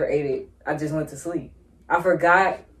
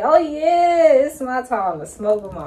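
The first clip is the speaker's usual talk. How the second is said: put-on excited teenage boast; 3 semitones higher than usual. Retelling first smoke with brother.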